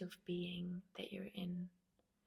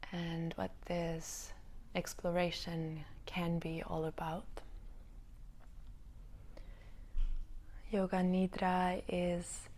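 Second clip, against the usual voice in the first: spacious meditation-teacher delivery with long pauses; unhurried guiding voice, lingering between thoughts; yoga nidra guidance. Real, not acted. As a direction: let each phrase settle before the next. Guides listeners into yoga nidra.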